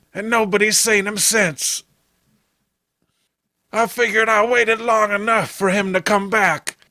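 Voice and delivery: worried backwoods brother. Acted. Clem telling the sheriff his brother is missing, anxious.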